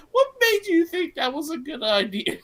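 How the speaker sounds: high, loud question through laughter; amused, exasperated retelling of a reaction; laughing disbelief. Retold or imitated. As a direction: ask it incredulously, cracking up. Retelling own reaction while laughing.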